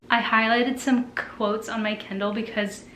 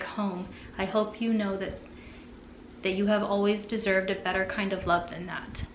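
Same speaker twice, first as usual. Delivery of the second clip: soft, sincere reading of an author's note; gentle, heartfelt read-aloud; earnest reading aloud; 4 dB quieter than usual. Acted.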